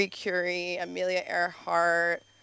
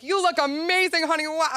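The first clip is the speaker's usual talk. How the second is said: fake gushing dad; 8 semitones higher, 6 dB louder than usual. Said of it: "he's so fake".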